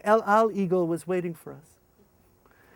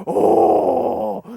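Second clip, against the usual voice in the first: put-on kids realizing; 6 semitones higher, 9 dB louder than usual. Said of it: "suddenly they go".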